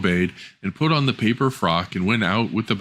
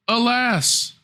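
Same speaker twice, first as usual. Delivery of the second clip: put-on high, pleading young girl; small voice protesting the cruel order; girl's voice. Girl protests to stepmother, high and pleading.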